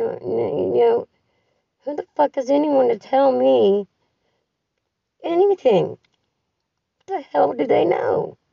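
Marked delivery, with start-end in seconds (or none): 1.8-8.4 indignant, pitch shooting up; rising fury. Real, not acted. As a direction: voice climbs higher with outrage. Venting rage at her family.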